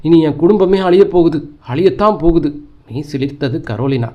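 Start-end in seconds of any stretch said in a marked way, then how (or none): 0.0-2.6 mild frightened cry. Acted. Mother wailing the terrible news on the phone, mild fright. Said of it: "அம்மா அலறினாள்".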